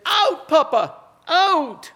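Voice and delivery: put-on high childlike plea; toddler's high begging cry; child pleading. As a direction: beg like a little boy in a playpen.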